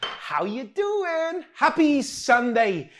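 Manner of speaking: loud, high showman welcome; big greeting. Real, not acted. Host welcoming viewers, big loud showman hello.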